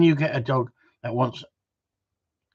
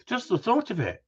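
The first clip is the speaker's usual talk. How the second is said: dreamy swoon; 10 semitones higher than usual. Shown as a demonstration. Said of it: "I'm blushing now".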